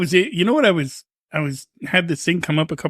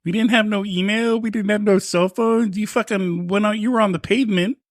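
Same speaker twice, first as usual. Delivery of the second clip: put-on grumbling old-timer lecturing the kids; old man voice; 2 semitones higher than usual. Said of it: "I'm gonna sound like an old fuck again".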